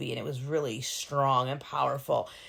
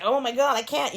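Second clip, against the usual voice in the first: mock overwhelmed; 8 semitones higher, 3 dB louder than usual. Acts her imagined overwhelmed reaction.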